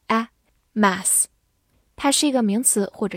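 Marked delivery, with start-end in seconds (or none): 0.1-1.3 the A in "mass" said with a wide-open mouth; "mass" with a broad, open short-a vowel. Shown as a demonstration. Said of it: "字母A发大口的A".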